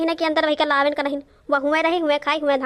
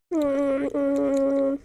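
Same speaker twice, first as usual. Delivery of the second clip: long appreciative "hmm"; drawn-out, level hum of tasting; savouring hum; much slower than usual. Acted. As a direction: hum over a tasty mouthful. Tasting food before praising it.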